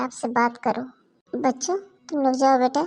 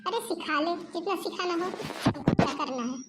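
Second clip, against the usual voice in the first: bitter muttering; 8 dB quieter than usual. Acted. Grandmother complaining to herself.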